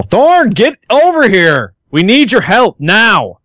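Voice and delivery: high, drawn-out call for help; acted yell. Player yells to Thorn through the doorway, urgent high yell. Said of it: "approach the doorway and yell".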